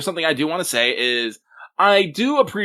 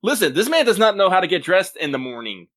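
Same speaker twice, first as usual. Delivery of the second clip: high, worked-up comic disbelief; hammed-up alarm over a fashion disaster; mock exasperated concern; 8 semitones higher, 4 dB louder than usual. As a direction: climb higher with each worried question. Mock alarm over character's odd outfit.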